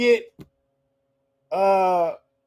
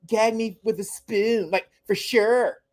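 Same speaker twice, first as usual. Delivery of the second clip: mock the Valley Girl movie talk; Valley girl impression; 2 semitones higher than usual. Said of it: "That's when they talk, like".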